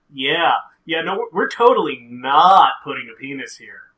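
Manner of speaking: loud, insistent fake reassurance; mock innocent denial. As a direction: protest way too much, playfully. Mock denial voicing the show.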